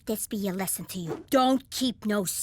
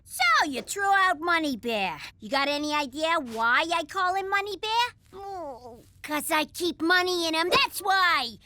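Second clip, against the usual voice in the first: raised, angry accusation; angry shout; 5 semitones higher than usual. Acted. Furious over thrown-out money bear.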